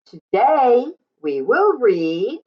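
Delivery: put-on bright, sing-song storytime voice for little kids; cheerful read-aloud to young listeners; reading to children. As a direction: greet the class like a kindergarten teacher.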